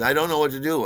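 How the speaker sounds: high, loud, helpless wail; mock distraught. Acting out the distraught friend.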